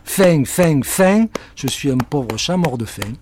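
hammed-up starving cat; whining cat. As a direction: moan for food like a drum. Cat drums belly complaining.

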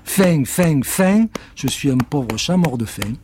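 plaintif, plus aigu et fort sur faim; chat qui réclame. Acted. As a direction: geint comme un chat affamé. Cat drums belly. (le chat tambourine et geint, plaintif)

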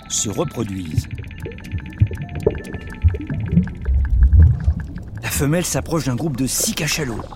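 calm documentary narration; nature documentary. A narrator's reading. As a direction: narrate like a wildlife film.

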